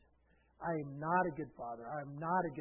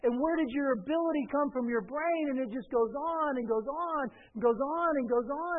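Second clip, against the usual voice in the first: higher, driving run of preacher's questions; forceful preaching; 7 semitones higher, 7 dB louder than usual. Real, not acted. Preacher challenging the self-made believer, forceful preaching. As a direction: pile the questions up insistently.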